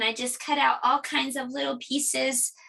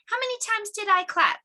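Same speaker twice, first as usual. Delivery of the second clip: teacher question; 10 semitones higher than usual. Acted. Teacher quizzes the children.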